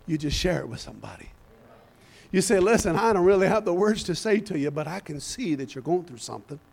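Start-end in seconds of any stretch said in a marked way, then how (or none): 2.6-6.6 softer, lower, caring voice; gentle reassurance. Acted. Church member comforts somebody going through something, gently. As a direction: reach out tenderly to someone hurting. Gentle words to someone hurting.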